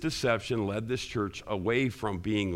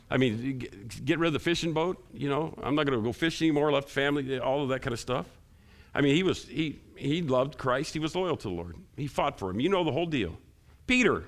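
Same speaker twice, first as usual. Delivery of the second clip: higher-pitched, animated preacher making a case; animated preaching; 5 semitones higher than usual. Real, not acted. Preacher telling the congregation how Peter loved Christ, animated and higher. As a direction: argue it with a lifted voice.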